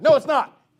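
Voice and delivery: high, loud hammed-up denial; mock indignant shout. Preacher mimics someone arguing with a troll, indignant. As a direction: shout back as if baited into an argument. Acted back-and-forth argument with troll.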